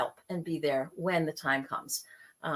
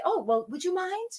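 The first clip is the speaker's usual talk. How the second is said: much higher, coy hinting ask; guilt-trip hint; 9 semitones higher than usual. Retold or imitated. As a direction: fish for a favor sweetly. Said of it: "some people say".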